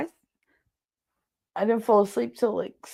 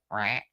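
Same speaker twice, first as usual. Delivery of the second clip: short, low duck quack; imitated duck quack; 8 semitones lower, 5 dB quieter than usual. Duck answering the woman talking to it, imitated quack. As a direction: do a little duck's quack. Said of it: "tilted his head, and went".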